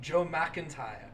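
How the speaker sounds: tentative mock Scots; Scottish accent. Shown as a demonstration. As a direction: echo the name in a Scottish accent. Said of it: "sound kind of Scottish".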